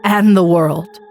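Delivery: a hint of a choked-up leader addressing the nation; solemn, mildly tearful national address; grieving president.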